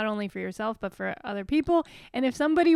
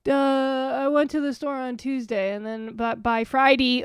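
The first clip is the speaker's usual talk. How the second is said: imitating an actor's patchy Delco accent; slipping Delco accent. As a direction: let the Philly-suburb accent slip in on "Friday". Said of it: "Every once in a while, they'll be like".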